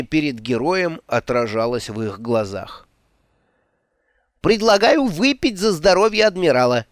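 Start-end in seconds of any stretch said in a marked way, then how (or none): 4.4-6.8 high, loud rousing shout; shouted toast. Acted. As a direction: raise the cup and bellow. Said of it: "выкрикнул Флинт".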